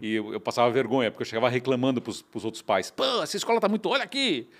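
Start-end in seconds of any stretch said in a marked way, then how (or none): 2.9-4.5 raised, high complaining voice; loud indignant parent; mock complaint. Father griping to other parents, raised and high.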